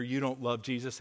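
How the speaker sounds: lightly voiced Satan murmuring an accusation; understated whispered taunt; Satan's whisper. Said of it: "He will whisper in your ear".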